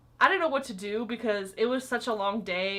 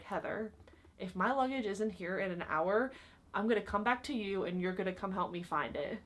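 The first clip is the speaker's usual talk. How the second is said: threatening guest; 5 dB quieter than usual. Retold or imitated. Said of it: "pretty much threatened me".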